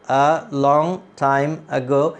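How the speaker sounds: a long time ago said slowly as one sense group; slow chunked reading. Shown as a demonstration. ("a long time ago" ধীরে এক টানে পড়া)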